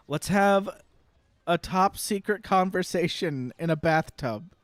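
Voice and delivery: mock a clueless writer's pitch; mocking showrunner. Imitating showrunner pitching changes.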